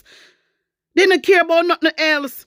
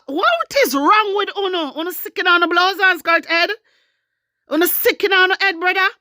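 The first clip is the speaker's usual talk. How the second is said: higher-pitched, indignant scolding; exasperated; 4 semitones higher than usual. Real, not acted. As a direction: demand an answer, pitch lifted in exasperation. Berating party supporters in a rant.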